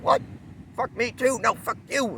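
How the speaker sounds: an annoyed stranger pushing back; irritated guy. Retold or imitated. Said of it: "he's like".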